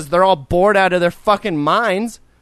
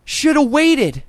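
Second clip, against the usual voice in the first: mock smug clerk; 4 semitones higher, slower than usual. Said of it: "He said".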